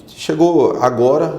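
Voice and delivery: ordinary delivery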